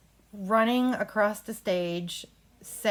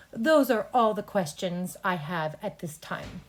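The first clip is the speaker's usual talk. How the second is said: matter of fact. Shown as a demonstration. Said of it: "just very professional and matter of fact".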